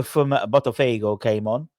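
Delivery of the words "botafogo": a light Brazilian Portuguese lilt on Botafogo; playful Brazilian Portuguese accent on the club name. Pretend. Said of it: "Don't know why I'm doing the accent".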